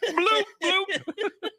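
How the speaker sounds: laughing nonsense. Real, not acted.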